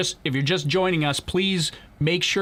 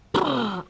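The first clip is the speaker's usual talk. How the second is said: imitated rocket ignition; 9 semitones higher than usual. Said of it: "Daniel wants me to do that again".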